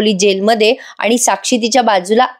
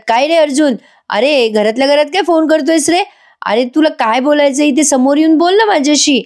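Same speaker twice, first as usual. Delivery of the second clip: a slightly raised, lightly voiced father on the phone; 5 semitones higher than usual. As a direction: play the puzzled dad, voice only a bit higher. (फोनवर मुलाला विचारणारे वडील, थोडा उंच आवाज)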